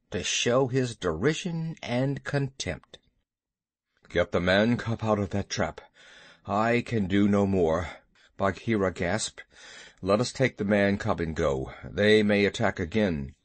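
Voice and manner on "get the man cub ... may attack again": low, gasping panther; tired, breathless big cat. Acted. Bagheera voiced in story.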